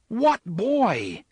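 high, loud, desperate shout; frantic, high-pitched demand; frantic yell. A narrator's reading. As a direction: yell it in a panic. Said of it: "Eddie yelled frantically".

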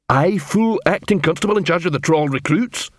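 troll lifting the pitch in disbelief; incredulous troll. Acted. Troll questioning his promotion to acting constable, incredulous.

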